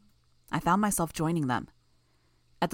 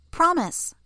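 put-on high, slow sing-song little girl; a creepy child promising good behaviour; eerie child; 12 semitones higher, 4 dB louder than usual.

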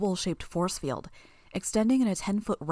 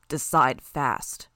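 slow, low growled order; 4 semitones lower, 4 dB louder, much slower than usual. A narrator's reading. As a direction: growl it out slowly, low in the throat. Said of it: "Armsmaster growled".

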